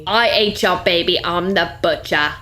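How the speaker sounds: badly faked Aussie Butcher; mock Australian accent. The Butcher confesses, mock Australian accent. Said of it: "that is not the accent".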